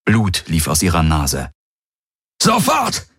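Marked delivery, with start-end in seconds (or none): 2.4-3.1 high-pitched thundered order; explosive commanding yell; thundering. A narrator's reading. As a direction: thunder it, no delay allowed. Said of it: "donnerte er".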